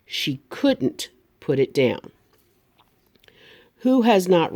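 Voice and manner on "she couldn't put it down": slow, couldn't with a crisp T; couldn't, KUD-ent, clear T; careful T. Shown as a demonstration. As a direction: say couldn't slowly and hit its T. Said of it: "be careful to hit that T".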